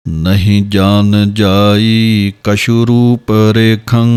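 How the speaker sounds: slow, measured chanting of verse; slow Gurbani path recitation; scripture recitation. Shown as a demonstration. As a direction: recite each line slowly and evenly, as in path.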